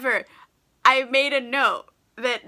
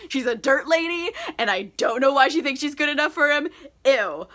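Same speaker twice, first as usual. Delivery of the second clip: mock snooty rant; 3 semitones higher than usual. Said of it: "on a rampage".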